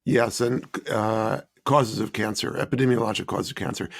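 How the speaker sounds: hoarse from a cold; raspy, under-the-weather voice. Real, not acted. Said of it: "pardon my, my, uh, raspy voice".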